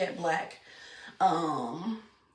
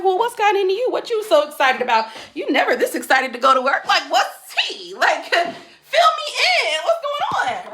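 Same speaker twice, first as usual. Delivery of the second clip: teasing laughing questions; 8 semitones higher, 8 dB louder than usual. Retold or imitated. Teasing boyfriend about his excitement.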